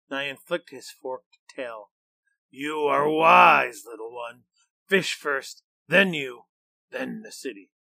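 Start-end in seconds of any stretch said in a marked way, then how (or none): 2.5-7.7 a beast savouring its plans; pleased monster. Acted. Nyan agrees.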